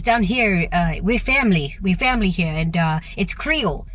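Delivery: lightly imitated Louisiana Creole accent. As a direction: echo a local's Southern Creole lilt, understated. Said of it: "in her accent, she goes".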